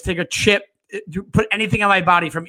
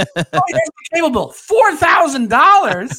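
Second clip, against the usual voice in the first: higher, mock-shocked old mother; shocked mom; 8 semitones higher, 5 dB louder, slower than usual. The mom opens the cable bill in mock shock at the cost. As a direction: gasp at the bill like a stunned mom.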